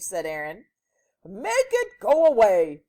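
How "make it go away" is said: loud, high desperate demand; full-voice plea; yelling man. A narrator's reading. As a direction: yell it like a frantic storybook man. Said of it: "yelled the man".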